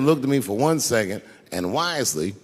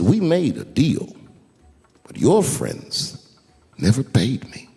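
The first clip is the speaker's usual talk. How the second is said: slow, lower and deliberate; gently; 3 semitones lower, slower than usual. Retold or imitated. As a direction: calmly lay out the facts. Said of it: "he stopped me gently".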